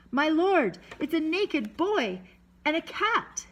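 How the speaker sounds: high, drawn-out holler; astonished yell. A narrator's reading. Sailor yelling to someone on the boat, astonished. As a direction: holler the news back in amazement. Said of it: "Then he yelled to someone on the boat".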